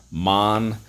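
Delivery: "Monarch" split into two drawn-out beats; "Monarch" in separate syllables for spelling. Shown as a demonstration. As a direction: sound out "Monarch" as mon, pause, ark. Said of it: "Three syllables".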